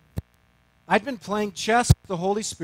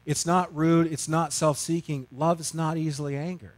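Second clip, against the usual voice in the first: scripture recitation. Retold or imitated. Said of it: "She quotes".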